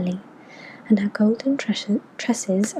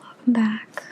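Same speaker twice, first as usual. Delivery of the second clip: whispering. Real, not acted. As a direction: whisper every word close to the mic.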